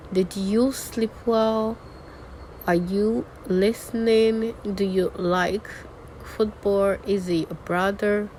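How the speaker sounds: questions lifted towards "well" and "listening"; measured questions, rising on the last word like "well". Shown as a demonstration. Teacher reading yes or no examples, rising question tone. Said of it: "Let's start with the rising tone".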